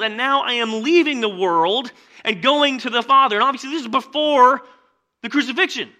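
loud, high, fervent scripture reading; preaching scripture. Acted. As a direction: read the words of Jesus as a sermon.

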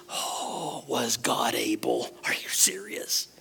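breathless unvoiced whisper of disbelief; incredulous whisper. Real, not acted. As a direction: whisper it as if you can't believe it. Incredulous aside after the king.

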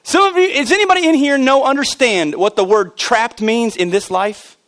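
emphatic pulpit proclamation; impassioned preaching. Real, not acted. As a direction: preach it out with rising fervor. Preaches with force.

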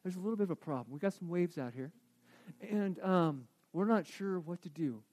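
hushed, timid plea to wake him; soft apologetic wake-up call; soft pleading disciple. Acted. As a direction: tiptoe in and whisper a nervous request. Disciples voiced waking Jesus softly.

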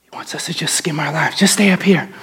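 low breathy tempter whisper; sneaky whisper. Acted. Voicing the enemy.

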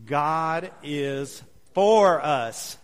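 slow build to a loud, long "for"; stress on for. Shown as a demonstration. Preacher leading another congregational read, stress on "for". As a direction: hold back "God is", then punch and stretch "for". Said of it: "emphasize a different word".

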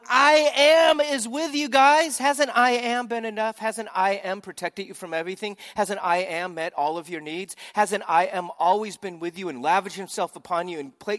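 loud, high, pleading cry of God; God pleading loudly. Retold or imitated. Preacher voicing God to grumbling Israel, loud high plea. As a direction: plead with them like a hurt father, full voice.

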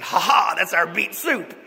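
loud, gloating laughing reveal; spring the surprise on him gleefully. Retold or imitated. Hosts triumphantly serve soup.

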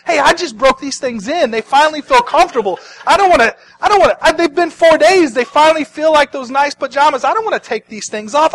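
high-pitched, loud comic whine; Lazarus whining refusal. Acted. Lazarus to Jesus about his grave clothes, whining refusal. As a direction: refuse like someone clinging to comfy pajamas.

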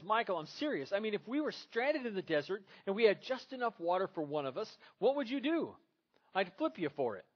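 acted couple quarrel. Preacher acting out Gloria and Michael, loud and high.

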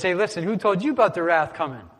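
John the Baptist taking sarcastic shots; sarcastic jab. Retold or imitated. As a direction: needle them with fake concern. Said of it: "That's sarcasm".

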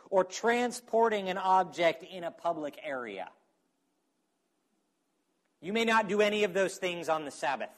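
rattled off without a breath; all in one breath. Real, not acted. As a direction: rush the list in one breath. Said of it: "I'm out of breath".

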